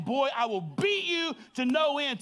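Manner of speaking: hammed-up angry yell; flipping-out dad. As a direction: act out an exasperated parent's outburst. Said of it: "I can be flipping out".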